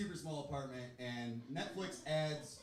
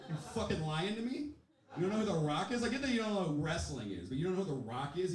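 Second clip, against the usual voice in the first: incredulous; 5 semitones higher than usual. Retold or imitated. Retold disbelief at hecklers.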